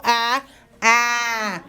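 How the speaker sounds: ah, ah with the mouth wide open; open vowel sound. Shown as a demonstration. Teacher showing children the open vowel ah. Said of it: "our A vowel".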